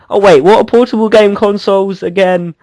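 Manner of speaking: teasing mock confusion; sarcastic. Real, not acted. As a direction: rib a fan with fake puzzlement. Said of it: "just taking the piss out of you".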